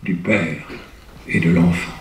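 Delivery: grave theatrical verse, fading to a hush; declaimed Hugo verse. Shown as a demonstration. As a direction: intone the elegy like a lament. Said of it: "Là, c'est du Victor Hugo".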